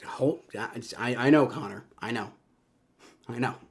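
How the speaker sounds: breathless whisper, words barely voiced; despairing whisper. Real, not acted. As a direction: whisper it in defeat. Team blowing the game.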